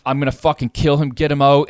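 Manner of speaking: imitated threatening shout. Retelling the neighbour's recorded threats, imitated shout. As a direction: bark the threats like the raging tenant upstairs. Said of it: "he was saying shit like".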